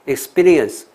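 "experience" broken as iks-PEE-rience with a heavy PEE; misplaced stress. Shown as a demonstration. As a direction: slowly show the mistaken split in "experience". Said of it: "念错，experience". (示范念错重音的 experience)

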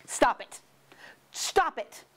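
hissed plea to stop; urgent whisper. Acted. Mr. Knox whispering to Mr. Fox to make it stop. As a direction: whisper it, begging him to stop.

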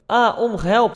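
half-hearted little scream of excitement; mild fangirl squeal. Acted. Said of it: "begint te gillen". (licht gespeeld gilletje)

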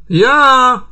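high, loud call from the next room; shout. A narrator's reading. Trixie claiming the Hawaiian pizza, a loud high shout. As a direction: call out to be heard through the wall. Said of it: "krzyknęła Trixie".

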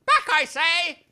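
high, loud, slow order; commanding shout. Acted. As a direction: drive her out with a bellow. Major orders servant out.

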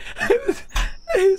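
wheezing high cackle; real uncontrolled laugh; high laughing fit. Real, not acted. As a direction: laugh helplessly.

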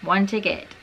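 ordinary delivery

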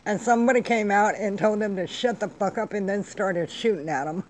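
hammed-up distress of a shocked mourner; mock crying. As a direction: pretend to be tearfully horrified, sarcastically. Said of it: "white people are gonna start crying".

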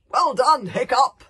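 loud, high, jubilant praise; excited cheer. A narrator's reading. Boy cheering Hiccup after the battle, loud jubilant shout. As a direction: shout it out in triumph.

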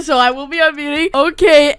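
normal talking voice

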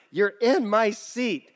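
lightly acted indignant passenger; blurted objection. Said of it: "someone blurted".

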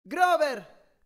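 high, long call into a cavern; echoing shout. A narrator's reading. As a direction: call his name so it carries. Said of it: "gridai facendo riecheggiare la mia voce".

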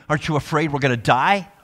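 loud, frantic cry of terrified sailors; panicked scream. Retold or imitated. Disciples waking Jesus in the storm, loud panicked cry. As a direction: yell it like men sure they'll drown. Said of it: "They wake up Jesus screaming".

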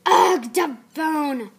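loud, drawn-out angry audition yell; character with anger issues exploding; angry outburst. Acted. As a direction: blow up in a slow, loud fit of temper. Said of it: "when she has her anger issues and stuff".

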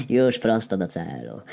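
a hint of a laughing brute; laughing Heniek. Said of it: "zaśmiał się Heniek". (lekko zaśmiany głos osiłka)

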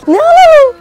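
very high, loud playful question; excited question. Pretend. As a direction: ask it like a thrilling game. Shopping game with toddler. (çocuğa market oyununda yüksek sesle heyecanlı soru)

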